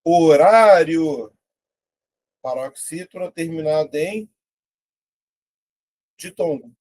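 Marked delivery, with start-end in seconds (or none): 0.0-1.3 word drawn out slowly, syllable by syllable; slow dictation. Shown as a demonstration. Teacher slowly reading out a quiz word. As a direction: spell it out slowly for the class. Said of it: "Quarenta e nove".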